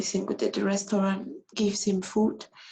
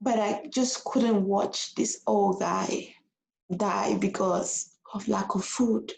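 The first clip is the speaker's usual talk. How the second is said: tearful, slow; slower than usual. Real, not acted. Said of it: "I don't know why I'm crying".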